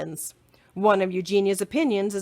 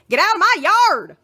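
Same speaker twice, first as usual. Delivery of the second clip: loud, higher yell; angry shout; 12 semitones higher, 8 dB louder than usual. Acted. Eugenia shouting while chasing Mercy. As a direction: chase the pig off. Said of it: "shouted Eugenia".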